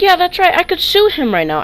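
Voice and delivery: high, loud, smug threat; cocky threat. Retold or imitated. To the mom, a loud smug legal threat. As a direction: threaten to sue, full of himself.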